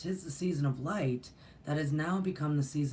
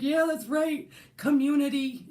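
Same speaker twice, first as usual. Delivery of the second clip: high, loud enthusiastic cheer; excited agreement; 12 semitones higher, 6 dB louder than usual. Retold or imitated. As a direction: reenact an eager yes, pitched way up. Acting out her delighted agreement.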